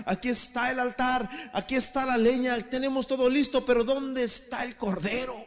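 rising fervent sermon, loud and high; preaching at full force. Real, not acted. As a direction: preach it, building to a shout. Sigue predicando con fuerza. (predicando con fuerza, cada vez más alto y fuerte)

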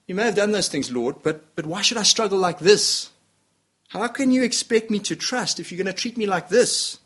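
mock grumbling to God; whining complaint. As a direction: push back at God, rising in pitch. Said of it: "But we say".

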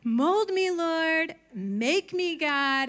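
high, loud, earnest mock prayer; hammed-up devout plea; mock pious prayer. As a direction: pray it like you mean it, a bit overdone. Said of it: "have you guys ever prayed the prayer".

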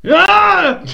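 high, loud battle shout; swing-and-yell war cry; Aragorn battle yell. Acted. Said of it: "Can you do a good Aragorn noise".

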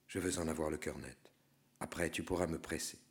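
quiet, quick low aside; hushed aside. Acted. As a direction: murmur urgently to the guide. Quiet aside to his guide.

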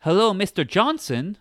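mock office woman. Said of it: "the woman working next to him".

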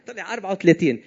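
laughing confession, quick. Real, not acted. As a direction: laugh it out sheepishly. Admits real waist size laughing.

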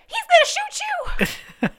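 high, laughing goofy echo of the warning; drugged Gus echo. Retold or imitated. Drugged Gus repeating the warning, high and laughing. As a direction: parrot it back, giggling and dopey. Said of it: "repeating everything in a deep voice".

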